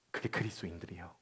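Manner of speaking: breathy whispered reveal. Real, not acted. Pastor revealing who Christians are, whispered. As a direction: whisper the key line.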